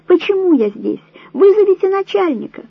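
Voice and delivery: very high, loud shriek; hysterical scream. A narrator's reading. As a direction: scream for the boss in panic. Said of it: "истерично закричала Вера".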